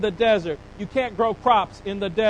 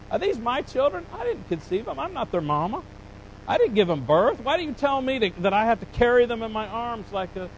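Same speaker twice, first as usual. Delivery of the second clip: higher, pleading, a touch of complaint; exasperated Moses; 4 semitones higher than usual. Retold or imitated. Moses pleading with God, mildly exasperated and higher. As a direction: Moses at the end of his rope, lightly played. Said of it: "he said, he said".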